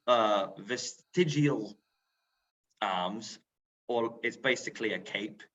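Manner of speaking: northern English accent from Lancaster. Shown as a demonstration. Interpreter showing visitors his soldier's garment, Lancaster accent. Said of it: "I'll just do an accent 'cause I can".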